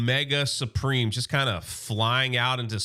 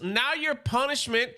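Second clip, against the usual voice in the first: menacing Megatron; 9 semitones higher than usual. Retold or imitated. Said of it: "He goes".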